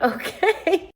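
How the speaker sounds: high-pitched, rising okay; awkward okay. Retold or imitated. Replying to the stranger's massage hint, awkward. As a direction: squeak out a hesitant acceptance.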